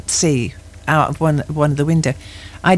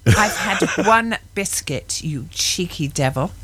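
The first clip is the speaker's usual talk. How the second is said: laughing slow telling-off; 2 semitones higher, slower than usual. Real, not acted. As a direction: chuckle through a mock scolding. Laughing while scolding co-host.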